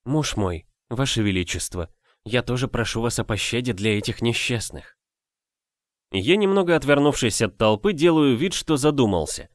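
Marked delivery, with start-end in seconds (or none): 0.0-5.0 softly pleading wife. Acted. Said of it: "звенит её голос".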